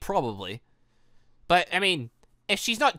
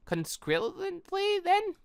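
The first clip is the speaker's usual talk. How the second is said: puzzled line read; 14 semitones higher, 4 dB quieter, much slower than usual. Acted. Reading a character's odd line.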